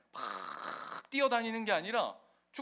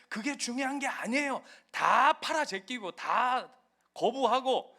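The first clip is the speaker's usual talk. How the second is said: false preacher; 4 semitones higher than usual. Retold or imitated. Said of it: "뭐라고 얘기했냐면".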